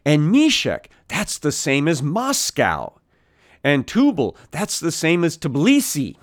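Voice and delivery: lightly mock their pat equations, each name punched high; mimicking commentators. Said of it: "people will say".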